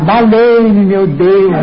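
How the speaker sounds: retold cry for help. Passenger retelling his cry on the plane, mock yell. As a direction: act out a panicked plea, half-shouted. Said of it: "Então comecei a gritar".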